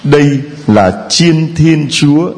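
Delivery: slow solemn scripture reading; Gospel reading. Real, not acted. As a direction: proclaim it slowly from the pulpit. Gospel proclamation at Mass.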